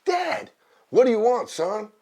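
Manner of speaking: put-on high-pitched insistent kid's call; pestering baby bear. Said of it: "fathers never listen to their kids".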